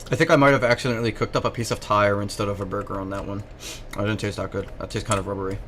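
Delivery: talking while chewing; words round a pretend mouthful; chewing noisily. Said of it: "Are you actually eating burgers?".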